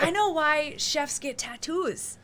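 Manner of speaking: high, slow words broken by laughter; laughing. Real, not acted. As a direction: laugh through the punchline. Laughing through chef tattoo joke.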